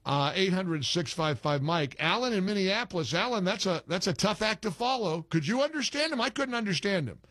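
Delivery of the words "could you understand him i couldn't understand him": incredulous. Real, not acted. Incredulous after garbled caller.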